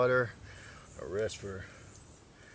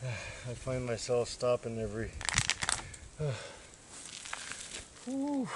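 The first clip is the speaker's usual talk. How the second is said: sighing and puffing between words; winded from the uphill hike; out of breath; 5 dB quieter than usual. Real, not acted. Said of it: "I'm definitely out of shape".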